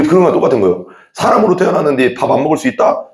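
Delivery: normal talking voice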